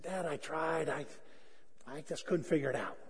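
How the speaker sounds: soft, low admission of failure; subdued excuse. Retold or imitated. Son explains to dad why he quit, subdued. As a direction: own up quietly to dad.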